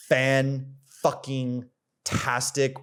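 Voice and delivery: boastful slow emphasis; drawn-out emphasis. Real, not acted. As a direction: stretch every syllable of fan fucking tastic slowly. Bragging about his results.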